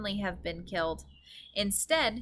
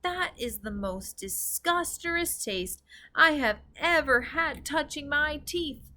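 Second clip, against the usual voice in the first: 1 disgusted giant; 6 semitones higher than usual. A narrator's reading. Giant voice continues.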